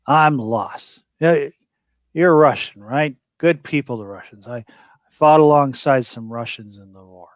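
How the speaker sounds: lightly voiced drunk, chummy and pushy; a hint of a sloppy drunk buddy; mock drunk. Player keeps playing drunk at the cop, mild slurring. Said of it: "putting my finger in his face saying".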